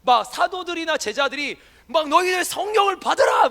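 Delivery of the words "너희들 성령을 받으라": loud, high shouted command; hammed-up shout, loud and high; mock shouting apostle. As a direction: bark it like an overzealous preacher. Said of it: "막 이래요".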